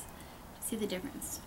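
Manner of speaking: breathy whispered repeat of the question. Shown as a demonstration. Whispering the question back to viewers. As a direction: drop to a hushed whisper for the echo.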